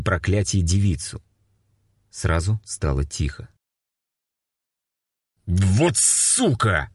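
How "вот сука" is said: grumbled curse. A narrator's reading. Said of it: "пробурчал Тарасенко".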